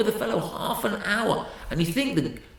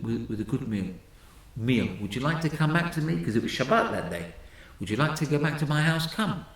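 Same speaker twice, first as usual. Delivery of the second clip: kind invitation; 3 semitones lower, 3 dB quieter than usual. Retold or imitated. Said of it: "The rabbi said".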